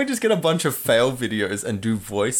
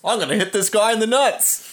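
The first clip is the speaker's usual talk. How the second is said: high silly voice; 11 semitones higher than usual. Acted. Mock voiceover of attacker.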